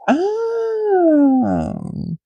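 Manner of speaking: surprised oh. Retold or imitated. Retelling the other girl's reaction.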